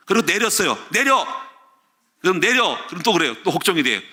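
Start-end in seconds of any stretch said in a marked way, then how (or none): 0.9-1.2 sharp high retold command; mock order. Preacher imitating his wife ordering him off the bus, sharp and high. 2.4-2.8 sharp high retold command; mock order. Preacher imitating his wife ordering him off the bus, sharp and high.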